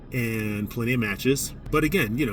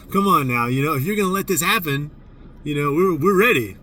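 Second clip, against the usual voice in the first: higher and louder, daring the refs; defiant call-out; 4 semitones higher, 5 dB louder than usual. Retold or imitated. Coach daring the referees to allow a fight, loud and defiant. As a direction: throw down a challenge, half joking.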